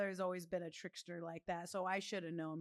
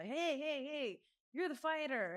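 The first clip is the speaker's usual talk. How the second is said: excited fan; 6 semitones higher than usual. Retold or imitated. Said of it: "this guy stopped me".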